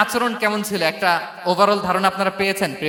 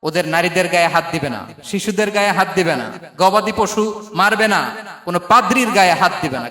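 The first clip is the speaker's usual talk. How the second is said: firm retold commands, somewhat raised voice; mildly declaimed battlefield orders; battlefield proclamation; 4 dB louder than usual. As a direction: lay down each prohibition like an army order. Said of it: "যুদ্ধের ময়দানে ঘোষণা দিতেন".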